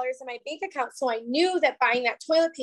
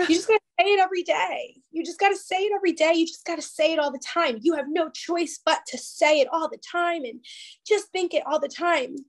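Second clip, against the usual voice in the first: quick, higher, insistent friend's voice; imitating her friend; 5 semitones higher, faster than usual. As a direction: rattle it off like an eager mentor pushing you.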